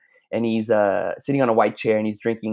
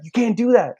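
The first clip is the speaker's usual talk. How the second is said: retold scolding; 12 semitones higher, 5 dB louder than usual. Instructor scolding in retold scene.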